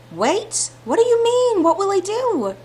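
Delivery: sudden high alarmed questions. Acted. Heroine alarmed at being told wait.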